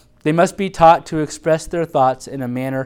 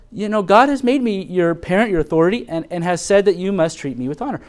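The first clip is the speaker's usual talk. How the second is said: calm firm parent; 4 semitones higher, 3 dB louder than usual. Shown as a demonstration. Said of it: "So you tell your child that".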